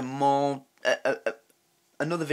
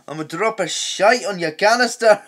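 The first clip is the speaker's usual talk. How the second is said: Scottish bird; 4 semitones higher, 5 dB louder than usual. Pretend. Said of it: "a bird have a Scottish accent".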